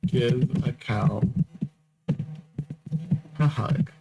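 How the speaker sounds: slow dictation. Shown as a demonstration. Host dictating the episode title, slow and spaced out. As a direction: Give a cow, then a long pause, then a hug, spoken slowly. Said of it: "episode title".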